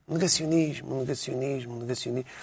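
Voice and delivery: repete "negacionismo" devagar e cada vez mais baixo, como quem o saboreia; repeating the word. Shown as a demonstration. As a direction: diz "negacionismo" três vezes, a apagar-se. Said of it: "do negacionismo". (repete "negacionismo" a desvanecer)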